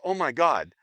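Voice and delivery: imitated woman berating herself; kicking herself. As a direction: wail with hammed-up regret, drawing out the why. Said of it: "start to kick herself and go".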